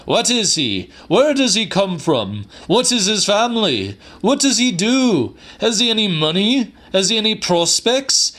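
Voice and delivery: high, loud, fast barrage of questions; a fuming old uncle grilling his niece; indignant interrogation. A narrator's reading. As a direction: fire each question harder, outraged.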